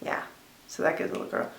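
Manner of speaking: whispering. Real, not acted. Quiet aside while curling.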